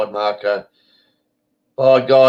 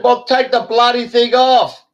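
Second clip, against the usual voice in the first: retold telling-off; 11 semitones higher, 5 dB louder than usual. Retold quarrel with masked woman.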